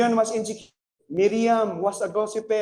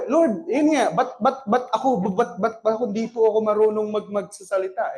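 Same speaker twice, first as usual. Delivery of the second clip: higher, halting mock stammer; stuttering Moses; 3 semitones higher than usual. Moses stammering his excuse to the Lord. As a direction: stammer the protest. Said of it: "Moses stuttered".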